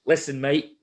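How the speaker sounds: lightly imitated accent of a fellow competitor; mock accent, friendly word before a fight; Mark. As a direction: put on your opponent's accent a little. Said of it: "excuse the accent".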